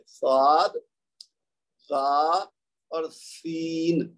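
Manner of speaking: slow, deliberate letter sounds; letter demo. Shown as a demonstration. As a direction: teach the hissing and buzzing letters. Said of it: "تو پھر یہ حروف ادا ہوں گے".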